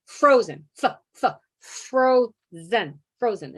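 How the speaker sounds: "Frozen" cut to its first sound "f", then said whole. Shown as a demonstration. A child sounding out "frozen" letter by letter. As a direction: stutter the "f" of "frozen" before landing on it. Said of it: "you sound it out as you write it".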